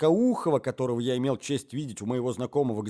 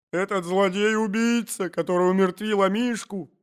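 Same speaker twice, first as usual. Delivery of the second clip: tearful cry; 6 semitones higher than usual. A narrator's reading. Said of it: "кричала супруга, заливаясь слезами".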